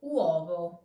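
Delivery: U in uovo glided into O; uovo with W glide. Shown as a demonstration. Teacher introducing uovo to learners with U as W. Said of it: "weak U turns into a W sound".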